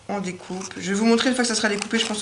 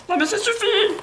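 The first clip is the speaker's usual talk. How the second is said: mock scolding; 13 semitones higher than usual. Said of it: "C'est hyper crédible".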